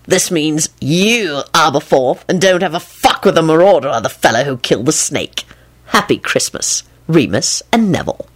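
added note read. A narrator's reading. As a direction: linger on "you", then sign off evenly. Lupin's added message read out.

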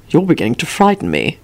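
understated, unruffled remark; matter-of-fact. A narrator's reading. Host reacts to corpse collection, matter-of-fact. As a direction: state alarm with no alarm at all. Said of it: "responded matter-of-factly".

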